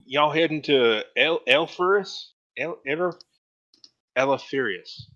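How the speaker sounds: put-on young Adira. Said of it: "Adira says".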